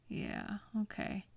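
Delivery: breathy whispered Yeah, barely there. Real, not acted. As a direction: drop to a whisper. Soft acknowledgement to upset partner.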